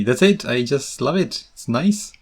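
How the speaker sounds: lightly voiced eager me; playing my cheerful answer; mock chirpy self. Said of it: "And I say".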